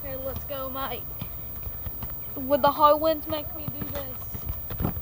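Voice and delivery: hammed-up Australian accent, leaning on "mate"; put-on Australian accent. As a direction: play an Aussie bloke battling the wind. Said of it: "He has this Australian voice".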